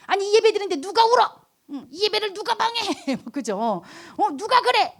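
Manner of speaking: hammed-up offended grumble; indignant. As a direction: huff about who dares disturb worship. Mock indignant complaint.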